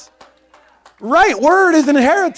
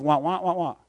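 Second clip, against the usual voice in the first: droning wah wah; 7 semitones lower, 8 dB quieter than usual. Retold or imitated. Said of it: "it's just".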